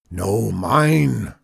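loud roar in a put-on voice. A narrator's reading. Farmer fights two rivals for the moon, roaring. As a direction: roar the others down. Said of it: "roared Zeke".

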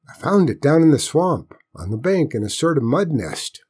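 lightly voiced country boy; a hint of a boy telling his find; young boy, explaining.

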